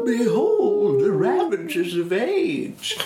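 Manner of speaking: hammed-up herald declaring his own decline; mock grand proclamation. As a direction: proclaim it like a herald, half laughing. Mock proclamation after clearing throat.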